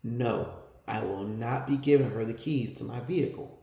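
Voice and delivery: quiet, polite refusal; calm, mannered answer to the officer; with manners. Retold or imitated. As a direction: say no firmly but courteously. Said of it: "but with manners".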